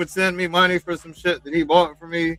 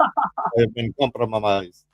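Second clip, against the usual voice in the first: drawn out and lower, a mock secret agent; slow mock spy drama; 5 semitones lower, much slower than usual. Joking on the stream that he is a caught spy, slow mock-dramatic. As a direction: savour each word like a caught spy.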